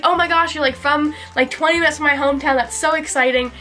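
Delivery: thrilled to meet neighbours abroad; friend's excitement. Retold or imitated. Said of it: "she was like".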